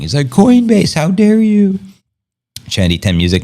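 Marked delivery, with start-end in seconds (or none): 0.3-1.8 high, wailing mock sob of outrage; mock crying investor. Streamer imitating a crying investor blaming Coinbase, mock wail. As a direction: whine it like a burned investor in tears. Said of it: "I saw one investor ultimately crying".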